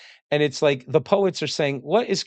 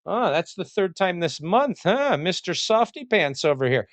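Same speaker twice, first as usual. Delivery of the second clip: lightly higher teasing barracks jibe; mocking tease; 5 semitones higher than usual. Spartan soldiers ribbing a married comrade, lightly teasing. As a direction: needle him like a mocking bunkmate. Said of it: "They get kinda made fun of".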